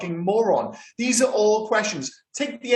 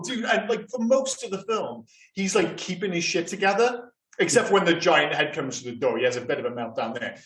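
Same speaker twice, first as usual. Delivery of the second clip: normal talking voice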